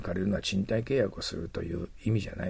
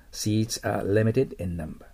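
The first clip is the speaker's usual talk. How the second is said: slow model reading; much slower than usual. Shown as a demonstration. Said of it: "model sentence repeated".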